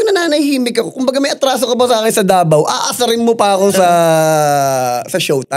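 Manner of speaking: retold angry rant. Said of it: "Talaga galit na galit ako".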